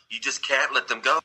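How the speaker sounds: mild retold plea, stretched at the end; understated imitation of begging; pleading. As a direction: plead a little, slowing on the repeat. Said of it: "She pleads with them".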